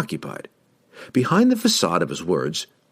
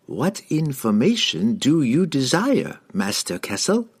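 slow, higher-pitched dazed servant; feigned entranced halfling; 7 semitones higher than usual. A narrator's reading. Halfling fakes being charmed for the wizard, slow and dazed. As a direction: answer slowly as if under a spell.

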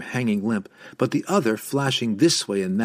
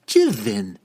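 amused call; 4 dB louder than usual. Acted. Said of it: "the amused drow called".

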